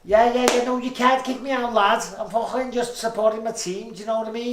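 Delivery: high-pitched, heavy Scouse pleading; Scouse protest. Acted. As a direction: protest as an indignant Scouser being thrown out. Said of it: "saying stuff like".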